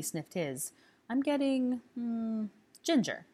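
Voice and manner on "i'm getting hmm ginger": Zabini voiced. Zabini sniffing his drink.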